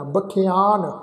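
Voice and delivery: ਬਖਿਆਨ as ba-khi-aan; half-yayya reading. Shown as a demonstration. Teacher explaining the formula, ਬਖਿਆਨ said as ba-khi-aan. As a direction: say ਬਖਿਆਨ with short i after kh, then long aa. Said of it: "ਬੱਬਾ ਖੱਖੇ ਨੂੰ ਸਿਹਾਰੀ".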